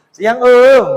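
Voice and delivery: high, loud coquettish hello; mock flirty greeting. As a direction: ham up a street performer's call. Imitating waria greeting at lights.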